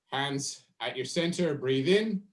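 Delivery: guided breathing. Acted. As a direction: ease them down gently, unhurried. Leads a slow breathing exercise.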